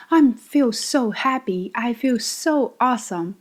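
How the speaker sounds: gushing happiness, stretched SO; happy, expressive intonation. Shown as a demonstration. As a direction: say it like you truly feel happy. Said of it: "intonation. You want to say".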